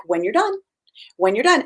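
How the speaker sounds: even, unhurried repetition; calm, neutral. Retold or imitated. Therapist to a child acting up at a restaurant, calm and neutral. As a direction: keep it neutral and matter-of-fact. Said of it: "in a very calm and neutral voice".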